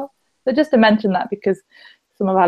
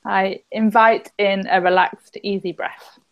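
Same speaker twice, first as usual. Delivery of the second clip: soothing; slower than usual. Shown as a demonstration. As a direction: ease the words out gently, fading away. Leads a tapping affirmation.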